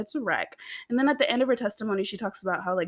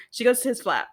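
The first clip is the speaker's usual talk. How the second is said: giggling through the correction; laughing correction; 4 semitones higher, 6 dB louder than usual. Real, not acted. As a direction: laugh it out, amused at herself.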